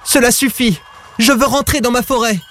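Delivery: high-pitched, exasperated outburst; fed-up cry. A narrator's reading. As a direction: cry out that you have had enough. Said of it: "cria-t-il".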